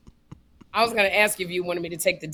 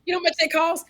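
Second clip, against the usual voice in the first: imitating David; 9 semitones higher, 5 dB louder, much faster than usual. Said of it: "And he goes".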